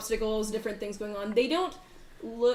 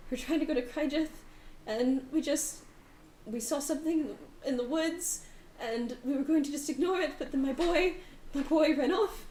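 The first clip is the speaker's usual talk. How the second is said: higher, pleading and near tears; distraught mother; 5 semitones higher than usual. Acted. GM as the mother telling the party how her boy ran off, higher and near tears. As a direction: tell it haltingly, barely holding together. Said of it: "starts to cry again".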